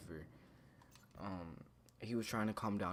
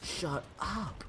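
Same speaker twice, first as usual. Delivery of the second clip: imitated angry outburst; 9 semitones higher than usual. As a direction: imitate an upset kid losing it. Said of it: "started getting really mad".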